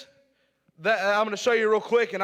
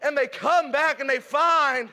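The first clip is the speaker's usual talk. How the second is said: raised preaching voice, pressing the point. Acted. Preacher urging the church to keep going, raised preaching. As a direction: preach it to the congregation.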